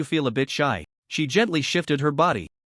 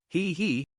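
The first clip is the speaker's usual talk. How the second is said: soft, much quieter "he, he" laugh; quiet chuckle; 2 semitones higher, 6 dB quieter than usual. A narrator's reading. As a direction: let a small knowing laugh slip out. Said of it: "Wang Chen couldn't help but laugh".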